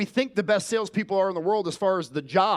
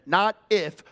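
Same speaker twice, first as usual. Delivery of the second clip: "not if" pushed louder; stress on NOT IF; 4 dB louder than usual. Shown as a demonstration. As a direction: punch "not if" hard. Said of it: "ask them".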